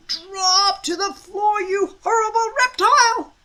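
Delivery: bellowed order. A narrator's reading. Stoic roaring at the dragon on his beard. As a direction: roar it like a Viking chief. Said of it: "yelled Stoic".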